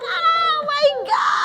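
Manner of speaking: thin imitation of a fan's shriek; retold excited yell. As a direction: re-enact squealing at the TV. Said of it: "Makanya kita teriak".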